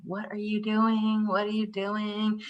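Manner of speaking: a parent mimicking a child; curious child. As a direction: ask it like a puzzled little child. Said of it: "They will follow along".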